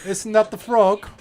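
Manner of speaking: old-fashioned British lady, lightly hammed up; British accent. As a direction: put on a Victorian-era British mother. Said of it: "We're British now".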